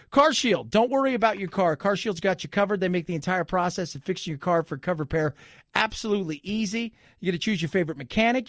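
upbeat sponsor read in the host's own voice. Acted. Radio host to listeners, a lightly pitched ad read. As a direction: sell it to listeners like a radio spot.

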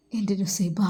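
whispered name of his beloved; a hushed, aching whisper. Acted. Faizal alone at night calling Nusaiba, whispered.

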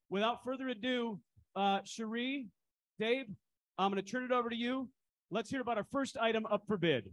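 loud, high hype voice; loud sharp voice. Real, not acted. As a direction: pump up the room. Auctioneer hyping the crowd.

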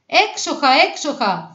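high first cry, settling on the second; excited cries. A narrator's reading. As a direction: animals cheering in mild delight. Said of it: "φώναζαν τα ζωάκια". (ενθουσιώδεις φωνούλες)

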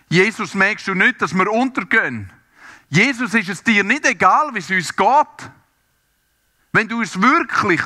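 high, loud desperate plea to Jesus; desperate cry. Acted. Disciples crying out to Jesus in the storm, desperate loud plea.

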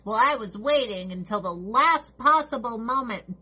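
lightly voiced lazy excuse; a hint of a whiny procrastinator; mock procrastinator. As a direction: play the dawdling excuse-maker. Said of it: "the last minuters".

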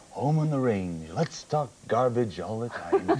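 lightly voiced, slow old-timer; a hint of a rambling old politician, drawn out; Ronnie. Comic mimicking Ronnie's old thing, slow light impression. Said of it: "old Ronnie's old thing was".

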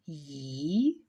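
"їхати" slowly split as ї, ха, ти; "їхати" with pauses between syllables. Shown as a demonstration. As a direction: dictate "їхати" in separate drawn pieces. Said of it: "Тому будемо писати".

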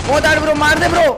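ordinary talk

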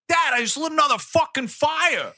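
put-on kid voice. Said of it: "imagined kid line".

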